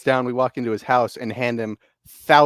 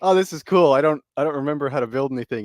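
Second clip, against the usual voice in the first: imitated excitement; 3 semitones higher, faster than usual. Imitating friend joining the game, excited. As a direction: mimic an excited friend getting going. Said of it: "Evan's all excited".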